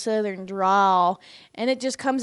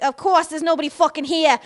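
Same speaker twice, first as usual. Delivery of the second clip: imitated New York grumble, a bit higher; New York accent; 4 semitones higher, 4 dB louder than usual. Imitating the neighbor at the elevator, New York accent. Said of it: "who's from New York".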